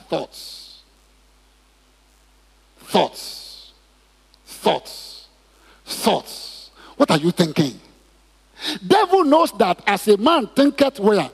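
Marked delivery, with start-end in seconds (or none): 0.1-6.7 breathy whisper, each word hushed; whispered thoughts. Acted. Preacher whispering to the congregation about creeping thoughts. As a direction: let each word slip out like a secret.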